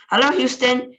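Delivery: an astronaut hailing ground control eagerly; crying out. A narrator's reading. Astronaut calling Houston over the radio, crying out. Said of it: "he cried into the mic".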